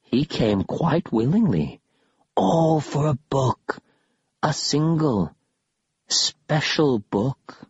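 very slow ghostly tease; eerie whisper. Acted. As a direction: draw out the bait slowly. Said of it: "another whispered".

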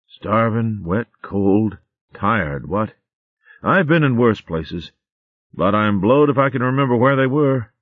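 put-on glum, grumbling old soldier; gloomy hare voice. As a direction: moan it with a wry sigh. Clecky grumbling, hungry and wet.

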